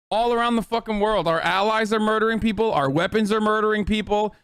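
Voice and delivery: insistent, angry list of accusations; real indignation. Real, not acted. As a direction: hammer out each charge in outrage. Angry rant about killings abroad.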